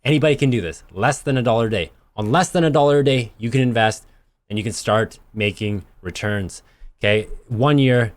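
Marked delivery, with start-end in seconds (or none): 0.0-0.8 full infomercial pitch. Acted. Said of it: "I sound like an infomercial". 0.9-6.6 infomercial pitch. Acted. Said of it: "I sound like an infomercial".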